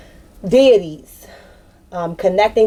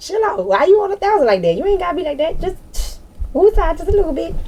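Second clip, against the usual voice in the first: mock listener voice; 10 semitones higher than usual. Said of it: "Damn, bitch, calm down".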